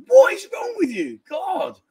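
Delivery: high, loud exasperated outburst; exasperated shout. Retold or imitated. Host replays his reply to her mood swings, exasperated. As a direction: voice shoots up in despairing protest.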